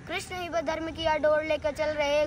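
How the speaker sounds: steady rhythmic declamation; full-voiced recital. Full-voiced repeat of verse. (पूरे स्वर में कविता पाठ)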